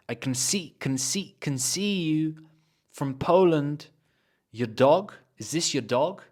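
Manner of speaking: "can" reduced to kn, run into "see"; linked weak forms. Shown as a demonstration. Teacher drills connected speech, linked weak forms. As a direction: join each phrase like one word, "can" and "your" weak. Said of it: "as if it's one word".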